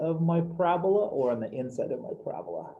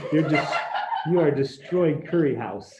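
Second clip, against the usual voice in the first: laughing tease; 4 dB louder than usual. Real, not acted. Teacher teasing a student.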